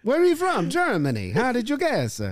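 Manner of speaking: high-pitched, hammed-up botched German; Italian-sounding German accent. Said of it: "that's definitely Italian".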